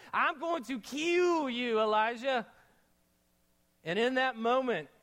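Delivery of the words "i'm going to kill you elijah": Jezebel's threat. Retold or imitated. Preacher mocking Jezebel threatening Elijah, slow. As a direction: lean into the threat and drag it. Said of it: "That's how she said it too".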